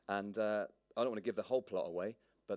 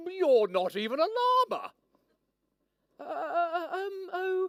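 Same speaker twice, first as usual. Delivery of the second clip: much higher, flustered stammer; stuttering girl; 8 dB louder, slower than usual. Acted. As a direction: stammer out in confusion. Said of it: "Stuttered Maya".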